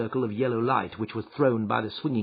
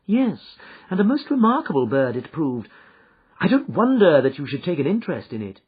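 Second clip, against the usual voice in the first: Holmes, calm and assured; 10 semitones higher, 6 dB louder than usual. Acted.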